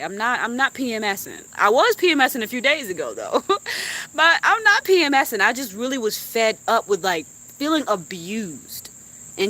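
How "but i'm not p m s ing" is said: higher, louder firm no; insistent denial. Real, not acted. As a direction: stress the not. Insists after laughing.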